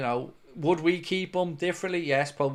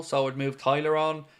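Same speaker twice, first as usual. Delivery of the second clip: talking through hiccups; hiccuping between words. Real, not acted. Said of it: "I've got the hiccups".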